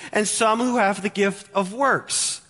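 light mock objector pleading with James; lightly voiced church member protesting to James; voicing a church objector. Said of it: "Their argument is".

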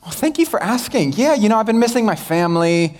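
oversharing American. Retold or imitated. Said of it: "these Americans would be like".

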